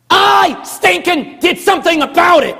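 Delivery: high, loud preaching shout; fervent shout. Real, not acted. Preacher shouting his own testimony to the congregation, high and loud. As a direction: shout it with full conviction.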